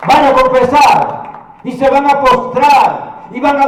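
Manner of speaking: emphatic, loud sermon delivery; ringing declaration from the pulpit; full-force preaching. Acted. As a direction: proclaim it to the whole congregation.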